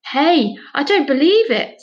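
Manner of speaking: surprised. Acted. Amazed discovery on phone.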